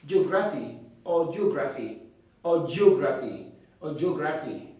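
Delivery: "geography" said as jo-gra-fi and ji-o-gra-fi, wrong; "geography" with extra i and o sounds. Shown as a demonstration. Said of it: "No. The I sound is not there".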